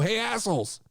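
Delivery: slow, deliberate dressing-down; telling off the locker room. Retold or imitated. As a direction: lay down the law to the wrestlers, slowly. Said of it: "I go".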